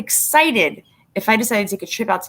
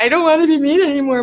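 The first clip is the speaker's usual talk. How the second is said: mock sweet voice; 8 semitones higher, 4 dB louder, faster than usual. Quoting a softened mood.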